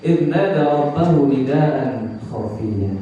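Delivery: slow, measured Arabic verse; Quran recitation. Shown as a demonstration. Preacher quoting the verse on Zakaria, slow recitation. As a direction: draw out the syllables as in recitation.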